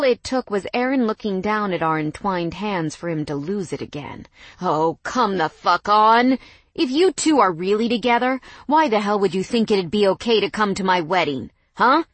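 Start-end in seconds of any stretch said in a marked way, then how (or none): 4.6-12.0 angry shout. Acted. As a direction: lose it and shout. Ex losing it again.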